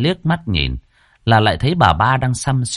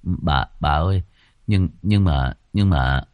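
low, stammering, scared servant; lắp bắp; 4 semitones lower than usual. Acted. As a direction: stumble over the words in fear. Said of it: "Anh Dần lắp bắp". (giọng thấp, lắp bắp sợ hãi)

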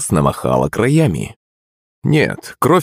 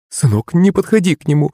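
alarmed shout; 9 semitones higher than usual. A narrator's reading. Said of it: "выкрикнула княгиня".

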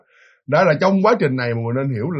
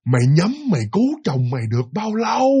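drawn-out sneer. Retold or imitated. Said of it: "nói mà khinh khỉnh mà khinh bỉ".

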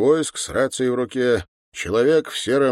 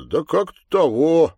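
higher, louder sergeant's reply; hesitant answer; 8 semitones higher, 5 dB louder than usual. Acted. Sergeant stammering an answer to the major, hesitant. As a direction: answer the major with a raised, stretched "того".

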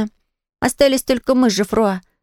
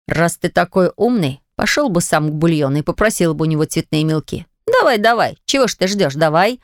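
lower, indignant schoolboy rant; indignant boy; 5 semitones lower than usual. Acted. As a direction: scold him like an offended kid. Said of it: "Geoffroy's indignant rant". (обиженный мальчишка)

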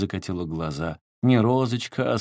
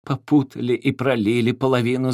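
nanny, declaring; 4 semitones higher, 5 dB louder than usual. A narrator's reading. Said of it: "заявила няня Зоя".

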